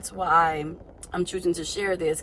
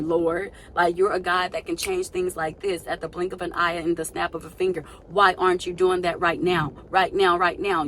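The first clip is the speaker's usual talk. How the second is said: insistent, mildly exasperated plea; frustrated questioning; 3 dB louder than usual. Acted. Questioning the Lord about her own turn, frustrated pleading. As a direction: press God for answers, frustration building slightly. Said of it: "it has you questioning".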